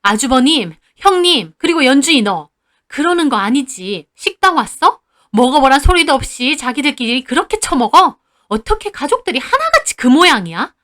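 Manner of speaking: mother scolding greedy in-laws; lecturing angrily. Retold or imitated. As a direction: call each of them out. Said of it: "큰아빠네 가족에게도 따졌어요".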